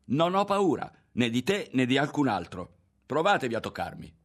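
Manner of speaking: high, loud challenge; defiant shout. A narrator's reading. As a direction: cry out and dare them. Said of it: "gridò con tutto il fiato".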